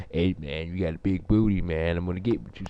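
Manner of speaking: low, soft come-on voice; imitated street stranger. Stranger on the street propositioning the speaker, low imitated voice. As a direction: drop low and quiet as the guy approaching. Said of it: "come out to me and say some".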